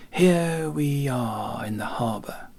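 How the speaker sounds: ironic remark with a smile. Acted. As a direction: let the irony show in the smile. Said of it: "smiling ironically".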